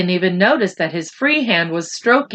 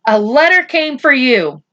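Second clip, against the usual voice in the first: odd voice; 4 semitones higher, 4 dB louder than usual. Acted. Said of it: "she said in an odd voice".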